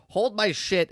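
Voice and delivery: mock quote dissolving into a laugh; laughing mockery. Mocking Obi-Wan's quote, laughing.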